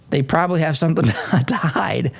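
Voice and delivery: hushed, knowing whisper with a laugh; whispered aside. Retold or imitated. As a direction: lean in and whisper it like a secret. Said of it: "He says".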